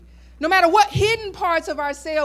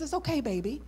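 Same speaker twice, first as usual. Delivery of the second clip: put-on elder woman gently comforting a scared girl; gentle and kind; 4 semitones higher than usual. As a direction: comfort her like a child. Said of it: "very gently and kindly says".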